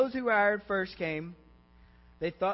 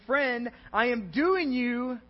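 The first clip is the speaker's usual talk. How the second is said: slow, higher, emphatic reply; firm rebuttal; 5 semitones higher, 9 dB louder, much slower than usual. Acted. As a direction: answer the grumbler, stretching the key words. Master answers the grumbler.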